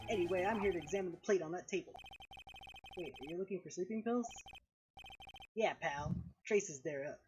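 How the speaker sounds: noir detective. Acted. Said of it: "my Gumshoe voice".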